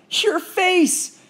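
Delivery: high, loud, teasing; gleeful jeer; laughing. Acted. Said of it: "She laughed harder".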